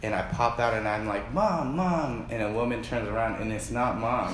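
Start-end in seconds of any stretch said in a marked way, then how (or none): 1.3-2.3 higher-pitched little call for mother; lightly voiced kid looking for Mom; child calling Mom.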